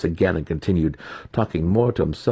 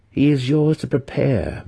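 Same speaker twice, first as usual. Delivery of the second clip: higher, firm order; commanding matron; 9 semitones higher, 4 dB louder than usual. A narrator's reading. Matron assigns the baby to her daughter, firm. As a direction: hand down the task.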